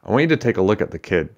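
quick, urgent and sincere; earnest. Acted. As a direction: press him earnestly, fast. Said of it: "she began earnestly".

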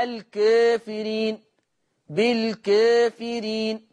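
الكافرين said slowly as lkefirin, alif tilted toward e; taqlil reading demo. Shown as a demonstration. Teacher repeats Warsh's taqlil on الكافرين, slow. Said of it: "ورش هيقلل الألف".

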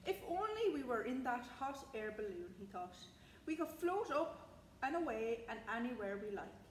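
put-on measured, expressive read-aloud for young children; bedtime story narration. A narrator's reading. Librarian reading a bedtime story to young listeners, expressive storytelling. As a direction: read it like a picture book, lifting key phrases. Reads picture book to children.

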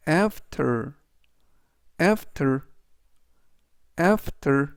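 "after" with the opening A stressed; stress on first syllable. Shown as a demonstration. Teacher models "after" for learners, stress on the first A. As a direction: punch the A at the start of "after". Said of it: "맨 앞에 있는 A의 강세가".

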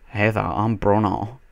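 put-on slow, silly accented introduction; Bruno. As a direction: drawl a daft greeting in a put-on accent. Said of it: "I'm gonna be like".

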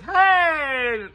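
loud, high mock shout; startled shout. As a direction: yell it like you just bumped into someone. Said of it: "be like".

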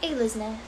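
"Alice Na-" as AY-liz NEH; alternative pronunciation. Shown as a demonstration. Streamer working through name options, trying "Alice Na-" as AY-liz NEH. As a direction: open "Alice Na-" on a long AY. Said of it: "so many ways you can pronounce it".

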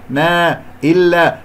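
ما and إلا with a spread-lipped, thin "eh" vowel; smiled alif. Shown as a demonstration. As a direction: say ما، إلا through an exaggerated smile. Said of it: "ولا تجعل هذه ابتسامة". (نطق ما وإلا خطأً بابتسامة مبالغ فيها)

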